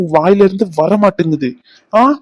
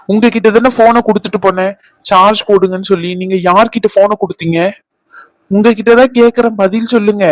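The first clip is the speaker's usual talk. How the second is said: raised angry voice; angry questioning. Acted. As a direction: demand answers from the servant. Interrogating servant about phone.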